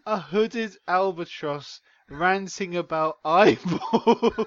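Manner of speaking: hysterical, high-pitched. Real, not acted. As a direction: push the words out while cracking up. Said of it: "hysterical, high-pitched voice".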